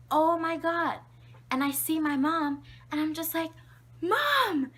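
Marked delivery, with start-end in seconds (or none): 0.1-1.0 high, loud mock shock; astounded mom. Mom seeing the poop-covered crib, astounded. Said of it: "she's astounded". 4.0-4.7 very high, loud happy cry; overjoyed baby. Retold or imitated. Baby spotting mom from the crib, overjoyed. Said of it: "the happiest baby in the world".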